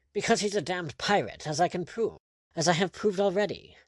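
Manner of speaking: high-pitched, heated argument; vehement insistence. A narrator's reading. Lord demanding a pirate be hanged, vehemently insistent. Lord arguing to hang the prisoner.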